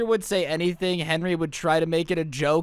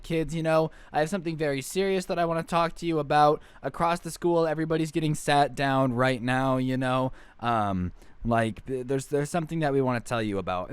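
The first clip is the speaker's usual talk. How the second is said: lower, grave teacher voice, light touch; serious teacher; 4 semitones lower than usual. Retold or imitated. Teacher gathers the kids for bad news, low and grave. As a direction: break heavy news gently to the class. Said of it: "he's like".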